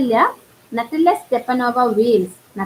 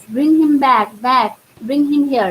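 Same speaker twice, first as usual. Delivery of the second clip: mock wail; 3 semitones higher, slower than usual. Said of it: "falls into an easy chair and wails".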